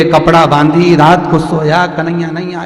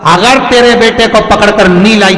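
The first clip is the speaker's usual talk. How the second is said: 1 threatening shout. Acted. Aunt threatens Yashoda while leaving.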